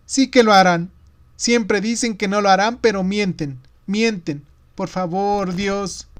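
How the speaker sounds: high-pitched frightened protest, fading at the end; pleading boy, close to tears; desperate child. A narrator's reading. Niño aterrado suplica. (niño desesperado y asustado)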